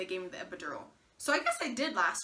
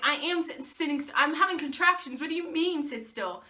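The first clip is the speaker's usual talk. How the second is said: snippy protest; 4 semitones higher than usual. Retold or imitated. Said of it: "And I'm like".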